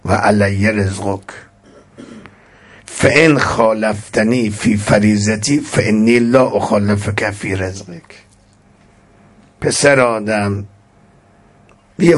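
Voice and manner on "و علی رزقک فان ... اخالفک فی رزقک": recited scripture. Acted. Recites Arabic hadith text.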